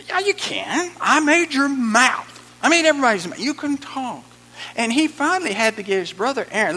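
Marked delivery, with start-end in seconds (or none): 0.1-4.2 high, loud reassuring voice of God; God's voice. Retold or imitated. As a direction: insist kindly but firmly. God answering Moses, voiced.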